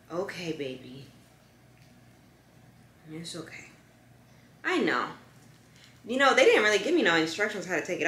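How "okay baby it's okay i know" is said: soothing. Real, not acted. Comforting the dog while peeling tape.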